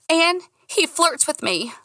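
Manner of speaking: high, slow squeaky confession. A narrator's reading. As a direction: let the voice squeak up. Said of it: "Squeaky voice".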